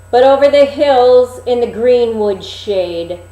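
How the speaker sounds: a magic mirror pronouncing its verdict; mirror's answer. Acted. Mirror answering the queen, loud then sinking.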